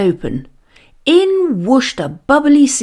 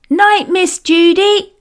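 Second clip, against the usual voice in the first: put-on a small boy's higher voice; piping child; 9 semitones higher, 3 dB louder than usual. A narrator's reading. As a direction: pipe up like a little boy saying goodbye. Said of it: "piped up".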